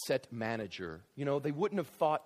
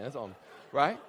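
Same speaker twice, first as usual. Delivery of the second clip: usual speaking voice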